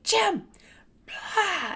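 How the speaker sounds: a sudden high furious shout of "Jim!"; yelling his name. Retold or imitated. Losing her temper at her teacher, shouting his name. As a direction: blow up at him, calling his name. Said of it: "and I would yell at him".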